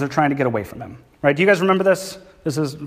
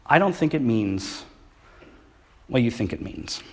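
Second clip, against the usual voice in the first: lightly voiced Inigo Montoya. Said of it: "he looks at him and he says".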